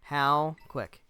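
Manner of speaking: loud repeat. Real, not acted. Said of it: "How quick do you think".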